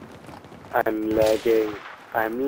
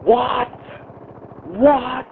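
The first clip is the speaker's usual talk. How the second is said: surprised; 10 semitones higher than usual. Real, not acted.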